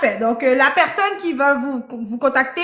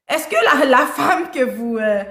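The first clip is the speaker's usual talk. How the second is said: holding back laughter while asking; real giggle creeping into the question; laughing. Real, not acted. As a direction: try to ask the question through a laugh. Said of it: "Pourquoi tu rigoles".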